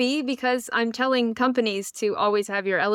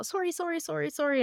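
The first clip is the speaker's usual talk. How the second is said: higher, softer, repeated mock apology; flurry of apologies; 7 semitones higher, 6 dB quieter than usual. Embarrassed Canadian backing away to her room, mock apologetic. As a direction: apologize over and over while retreating. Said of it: "My Canadianness took over".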